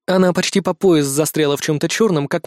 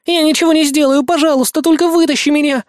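tearful begging; 10 semitones higher, 4 dB louder than usual. A narrator's reading. Girl in tears begging.

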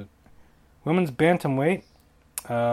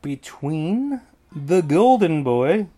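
mock ring announcer; 3 semitones higher, 5 dB louder, much slower than usual. Announcer-style fighter intro.

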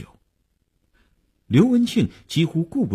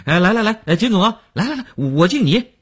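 self-mocking; 8 semitones higher, 3 dB louder than usual. A narrator's reading. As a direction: laugh off the embarrassment, then rally the table noisily. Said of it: "自我解嘲地对众人说". (先自我解嘲，再高声张罗敬酒)

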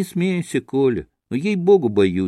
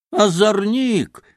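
a slow, higher scolding cry; scolding shout; 10 semitones higher, slower than usual. A narrator's reading. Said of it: "раскричалась Марья". (сердитый окрик)

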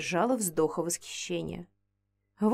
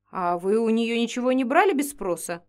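ordinary delivery, nothing marked

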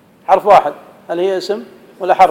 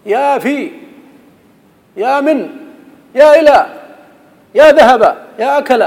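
high, loud mock vocatives; mock absurd calls; 7 semitones higher, 6 dB louder than usual. Shown as a demonstration. Teacher showing absurd vocatives on particles, high and loud. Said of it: "الحرف لا ينادى".

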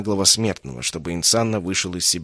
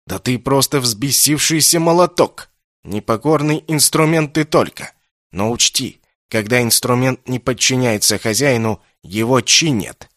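loud, higher scolding, slowing at the end; angry tirade; 3 semitones higher, 4 dB louder than usual. Acted. Insanna scolds Kessin as a broken tool, angry. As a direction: tear into the defiant boy. Mage berates rebellious boy.

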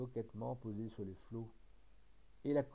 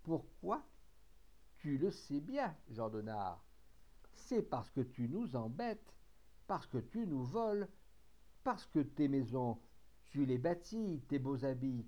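threatening accusation. Acted. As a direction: spit each grievance at him. Mutineer threatens his captain.

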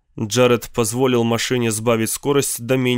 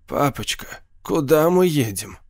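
детский голосок; 3 semitones higher than usual. A narrator's reading. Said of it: "словно старался говорить как ребёнок".

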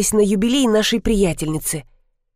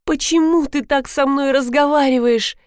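higher, indignant wife; 5 semitones higher than usual. Acted. Wife protests how her husband speaks to her, indignant. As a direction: protest the insult, voice up. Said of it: "возмутилась жена".

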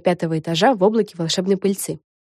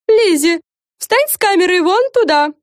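high, loud order; bossy command; 12 semitones higher, 5 dB louder than usual. A narrator's reading. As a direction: order her about. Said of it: "велела Френ". (властный приказ)

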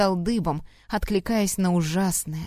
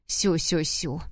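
mock baby talk; 3 semitones lower, slower than usual. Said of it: "И таким мёдом полился его голос".

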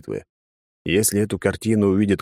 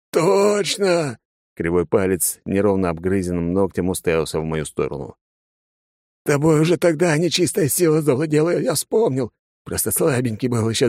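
put-on crazed drunk; 7 semitones higher than usual. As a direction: point and accuse the demon. Father's crazed accusation.

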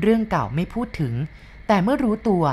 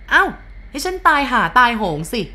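higher, louder, careless swearing; brash oath; 7 semitones higher, 5 dB louder than usual. A narrator's reading. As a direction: swear it loudly without a care. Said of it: "สะบดสาบานอย่างสบายปาก". (สาบานเสียงดังอย่างไม่แยแส)

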